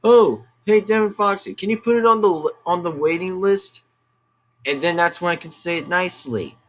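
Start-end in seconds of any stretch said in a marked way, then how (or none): 0.0-3.8 polite fan asking. Retold or imitated. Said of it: "rather ask me by saying is like".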